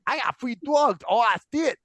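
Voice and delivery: twitchy slurred addict voice; crackhead voice. Retold or imitated. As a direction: sound like a jittery junkie. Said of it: "That's my crackhead voice".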